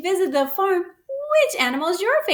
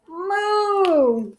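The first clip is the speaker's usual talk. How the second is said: cow moo; 4 semitones higher than usual. Shown as a demonstration. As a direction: moo again for the kids. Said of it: "Let's do it again".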